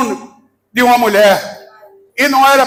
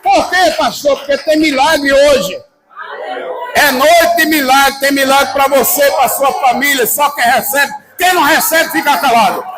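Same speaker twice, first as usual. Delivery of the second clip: rousing preaching; 3 semitones higher than usual. Acted. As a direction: whip up the crowd. Preacher rouses crowd about miracles.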